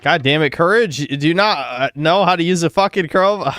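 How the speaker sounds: frustrated shout at the dog; angry yelling. Real, not acted. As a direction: yell it, really fed up.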